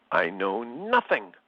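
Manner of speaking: put-on light German accent, slow and clipped; a touch of German accent, words spaced out slowly; Hans Schultz German accent. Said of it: "in a clipped German accent".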